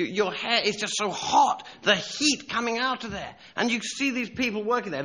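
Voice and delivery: vivid preaching. Real, not acted.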